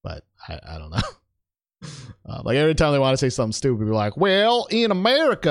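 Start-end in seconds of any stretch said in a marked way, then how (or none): 4.2-5.5 mock Texas accent. A Brit mocking Americans in a Texas accent. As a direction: play a dumb American in a twangy Texas accent. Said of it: "that's a Texas accent".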